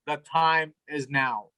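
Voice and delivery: slow, portentous mock announcement; ominous. Mother phones that dinner is ready, ominous. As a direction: imitate a cryptic, doom-laden summons. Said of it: "phone calls always sound ominous".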